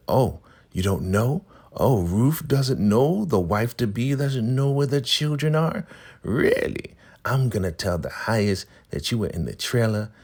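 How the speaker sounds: high, loud, taunting matron; mocking elder. Marva taunting Ruth about the missing children, high and loud. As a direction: rub it in like a smug elder.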